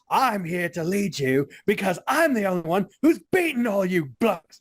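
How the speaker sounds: half-hearted attempt at an Australian accent; badly faked Australian wrestler voice. Wrestler claiming leadership of the group, badly faked Australian accent. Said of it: "I can't do an Australian accent".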